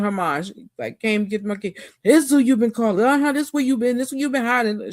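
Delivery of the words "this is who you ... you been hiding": higher-pitched mock angry rant; retold accusing tirade, high and lively; going off. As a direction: imitate her laying into him, pitched up. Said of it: "She started going off".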